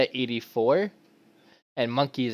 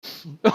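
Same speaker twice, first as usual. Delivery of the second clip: breaking character giggling; 4 semitones higher than usual. Real, not acted. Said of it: "I can't keep a straight face".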